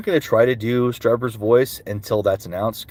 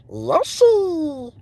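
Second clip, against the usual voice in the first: much higher squeaky call; Donald Glover's Yoshi. Acted. Answering chat's request, squeaky Yoshi cry. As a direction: chirp the name up high. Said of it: "Donald Glover's Yoshi".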